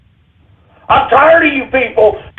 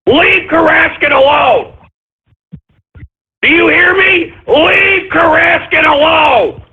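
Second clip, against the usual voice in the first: slow, drawn-out command; stern slow warning; slow angry demand; 4 semitones higher, slower than usual. Real, not acted. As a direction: leave him alone, slowly and firmly. Host defending sponsor.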